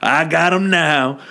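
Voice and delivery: mock sneaky triumph; gloating Smeagol. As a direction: relish it like a scheming Gollum.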